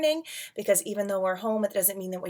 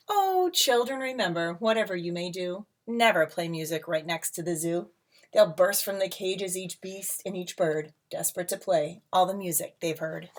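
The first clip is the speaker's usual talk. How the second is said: lilting read-aloud storybook voice; rhyming picture book read to a class; reading to children. A narrator's reading.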